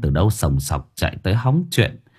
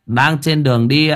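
higher, boastful swagger; swaggering con man; 5 semitones higher than usual. Acted. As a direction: brag like a sham exorcist. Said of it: "khệnh khạng ... nhẹt cái mồm ra". (giọng khệnh khạng khoác lác)

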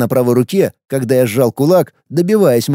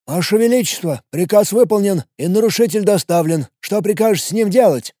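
muffled voice inside helmet; 7 semitones higher than usual. Acted. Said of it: "спросил глухой голос из-под шлема".

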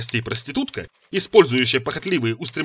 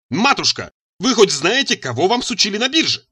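higher-pitched indignant question; squealed protest; 8 semitones higher, 4 dB louder than usual. A narrator's reading. Son challenges mother about her purchase, high protest. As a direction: press the accusation, voice raised high. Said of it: "Визг проник в матушкины уши".

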